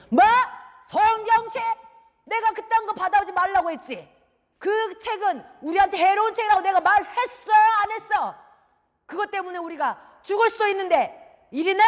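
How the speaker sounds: loud, high-pitched outrage; angry father. Acted. Father seizing a harmful book from his son, angry. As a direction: scold furiously and demand it be handed over.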